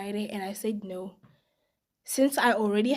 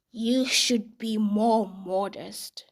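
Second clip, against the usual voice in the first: disapproving husband; much slower than usual. Retold or imitated. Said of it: "he says".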